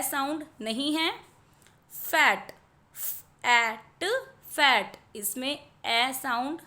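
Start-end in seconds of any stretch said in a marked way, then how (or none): 2.9-4.0 म ए न, each sound split apart and slow; sounding out letters. Shown as a demonstration. Teacher sounding out a word for children, slow and split. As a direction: stretch म ए न into separate sounds. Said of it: "तो यहाँ पर क एट".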